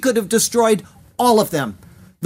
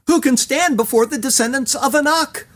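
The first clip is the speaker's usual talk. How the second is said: higher, mocking echo of the fearful cry; ironic; 6 semitones higher than usual. Moses mocking the people's fearful question, ironic raised echo. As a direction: quote the people's worry with raised ironic disbelief. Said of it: "Moses ironically repeats what the people called out".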